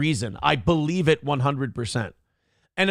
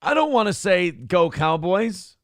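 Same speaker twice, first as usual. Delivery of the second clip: grudging, slow mock cheer; reluctant; 3 semitones higher than usual. Real, not acted. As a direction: drag out "Go, Cowboys" slowly, unwilling. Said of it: "Oh, don't make me say that".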